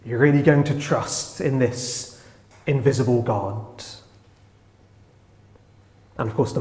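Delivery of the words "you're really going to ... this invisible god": mocking taunt. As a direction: sneer at their faith, but gently. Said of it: "they mocked and said".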